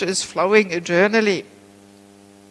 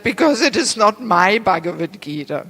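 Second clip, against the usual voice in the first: louder, punched-up quote of a teacher's reply; emphatic retold answer; 3 semitones higher, 5 dB louder than usual. Guru answering the lady who asked about his Gita, emphatic. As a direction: deliver the punchline with firm emphasis.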